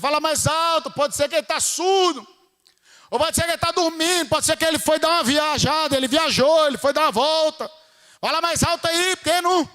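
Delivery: mocking taunt. Elias taunting Baal's prophets about their silent god, mocking. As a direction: goad them with mock helpful suggestions.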